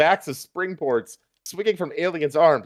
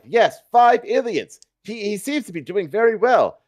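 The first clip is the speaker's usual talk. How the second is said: news reporter voice; 7 semitones higher, 3 dB louder than usual. Acted. Reporter commentary on battle.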